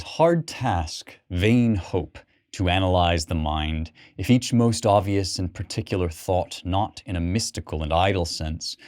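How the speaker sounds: measured, unhurried reading of blank verse; poem reading. Acted. Lecturer reads the Prelude to his class, measured poem reading. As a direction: let the lines flow like spoken verse. Reads passage from book two.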